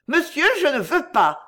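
high-pitched alarmed protest; frightened cry. A narrator's reading. Girl in the boat protests to her abductor, frightened cry. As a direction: cry out your refusal in fright. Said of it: "s'écria-t-elle effrayée".

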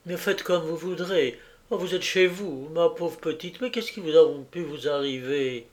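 a kindly landlady fussing with relief; fussy landlady. Acted. Landlady greeting Jacqueline home, gushing relief.

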